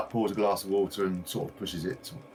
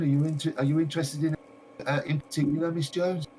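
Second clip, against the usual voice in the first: higher, eager shopkeeper voice; gushing shopkeeper lady; 4 semitones higher than usual. Acted. A game master voicing the shopkeeper greeting a visitor, high and eager. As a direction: play the delighted lady greeting her customer. Shopkeeper questions guest nonstop.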